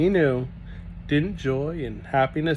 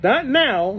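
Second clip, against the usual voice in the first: put-on boy holding back; 11 semitones higher, 6 dB louder than usual. Jancy holds Grigori back.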